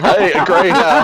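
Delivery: high, loud delighted exclaim; excited. Real, not acted. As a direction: blurt it out in delight. Excited outburst at greyhound.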